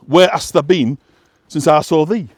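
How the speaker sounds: lyrics read in a light broad West Yorkshire accent; gently voiced West Yorkshire dialect reading. Shown as a demonstration. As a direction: give the old Yorkshire song words their dialect sound. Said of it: "an authentic West Yorkshire".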